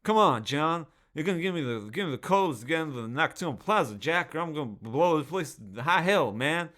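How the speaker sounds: high, loud, rambling old-man Biden voice playing a villain; Joe Biden impression. Mocking Jon Voight as Biden, high loud hammed-up old-man voice. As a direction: ham up a doddering Biden making Die Hard threats. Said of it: "Jon Voight's basically Joe Biden".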